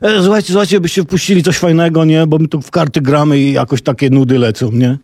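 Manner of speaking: a listener playing cards phones the night DJ, casual pushy voice; caller's voice. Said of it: "taki głos mówi".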